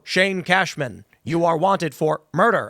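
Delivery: mildly robotic, measured announcement; police drone. Acted. Drone pulls a driver over, robotic accusation. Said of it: "the drone's gonna pull".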